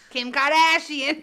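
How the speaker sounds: slow, loud drawn-out Kim Kardashian; mock Kardashian drawl. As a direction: stretch the name out in a vocal-fry drawl. Mocking echo of "the harbor.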